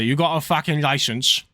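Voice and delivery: light London geezer voice; rough London slang. Retold or imitated. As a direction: lightly play a London bloke. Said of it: "hear an Oibrov say".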